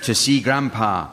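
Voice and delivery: odd, effortful go at an Antiguan lilt; attempted Antiguan accent. Host performs a rhyme from Antigua for the teams, shaky attempt at an Antiguan accent. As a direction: chant it in a dubious Antiguan accent. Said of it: "you're not having some stroke or anything".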